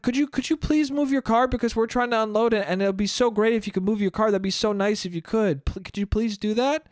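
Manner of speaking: lightly sweetened, polite plea; quick, mildly ingratiating asking; very nice request. Retold or imitated. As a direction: retell it as an over-polite request. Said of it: "I said to them very nicely".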